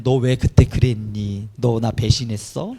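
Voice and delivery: low, measured voice of imagined blame; lightly acted low-voiced reproach; mock reproach. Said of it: "이렇게 하지 않고 책망하지 않고".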